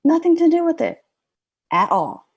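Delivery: realization. Retold or imitated. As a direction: let the epiphany burst out. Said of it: "I was like".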